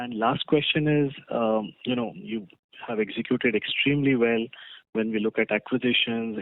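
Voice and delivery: loud, projected phone voice. Real, not acted. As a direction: push your voice to be heard. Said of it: "Could you please speak a little louder?".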